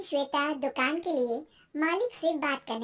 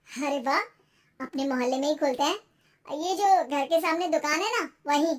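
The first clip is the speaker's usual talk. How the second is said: encouraging husband. Acted. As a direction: suggest it keenly as the husband.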